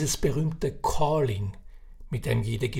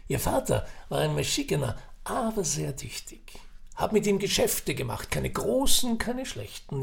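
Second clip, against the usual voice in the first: put-on raised, chatty old Viennese man; old café gossip; 4 semitones higher than usual. Old man sizing up Ferdinand at the café, chatty. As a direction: spin the yarn like a knowing old uncle.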